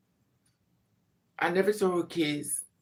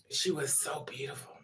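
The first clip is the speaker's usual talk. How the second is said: whisper; 8 dB quieter than usual. Real, not acted. Whispered aside about aunt.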